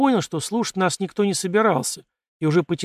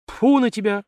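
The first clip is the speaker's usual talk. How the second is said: spitting scorn; 7 semitones higher than usual. A narrator's reading. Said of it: "сплюнул Тарас".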